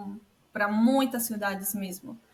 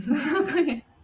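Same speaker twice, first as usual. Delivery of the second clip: laughing; 5 semitones higher, 3 dB louder than usual. Real, not acted. Guest laughs at unknown town.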